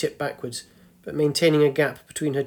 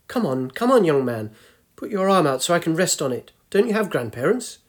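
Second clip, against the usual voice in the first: put-on hurried, higher old lady voice; impatient old woman; 3 semitones higher, 3 dB louder than usual. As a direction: chivvy him like a cross grandmother. Old woman urges him impatiently.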